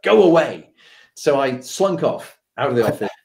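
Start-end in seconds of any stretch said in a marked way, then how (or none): 0.0-0.7 imitated send-off, only moderately raised; milder dismissal. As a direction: shoo them off without real harshness. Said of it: "It was like".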